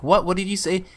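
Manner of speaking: acted not-hearing query; puzzled clerk. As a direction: ask it as if you didn't catch a word. Acted clerk can't hear whisper.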